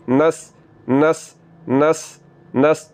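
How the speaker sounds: नस slow with thin सीन; teacher slowly showing the wrong नस; wrong light seen, slow. Shown as a demonstration. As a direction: drawl नस lightly as the mistake. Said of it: "तो ये गलत है, नस नहीं पढ़ना".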